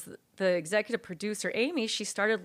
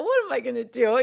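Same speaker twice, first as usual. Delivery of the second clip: laughing panic; 4 semitones higher, 6 dB louder than usual. Retold or imitated.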